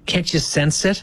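hushed, mysterious whisper; teasing whisper. Acted. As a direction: whisper it like a secret.

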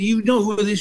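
high, pressing question; indignant older fan. Retold or imitated. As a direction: imitate a fan demanding recognition. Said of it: "And she said".

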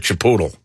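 Chipotle said as "chi-POO-tle"; mom's mispronunciation. Retold or imitated. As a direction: say Chipotle with an "oo" and a "tul" ending. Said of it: "or as my mom calls it".

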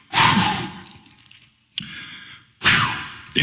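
weary exhale. Retold or imitated. Exhausted before preaching.

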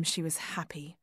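soft breathy whisper. A narrator's reading. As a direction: breathe it out like a secret. Tender memory, whispered.

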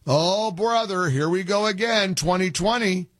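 imitating fed-up skeptics, voice lifted; eye-rolling weariness. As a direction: roll your eyes through a stretched-out groan of protest. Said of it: "probably rolling their eyes".

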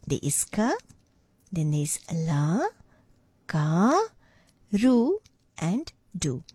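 "ka", "la", "ka", "ru", "do" one at a time, long pauses between; syllable breakdown. Shown as a demonstration. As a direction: spell out the word syllable by syllable. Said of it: "look at the syllable breakdown".

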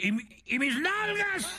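very high squeaky panicked frog voice; frog wailing. Acted. Frog cries out after losing its backside, high squeaky wail. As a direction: shriek in dismay like a tiny frog. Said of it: "la rana volteaba y decía".

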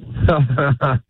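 a put-on chuckle for the host; forced laugh to order; fake laugh on request. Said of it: "let me hear your fake laugh".

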